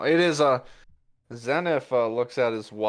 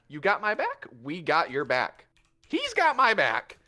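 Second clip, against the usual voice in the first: puffed-up echo; 6 semitones higher than usual. Acted. Puss echoing, Zenith answering.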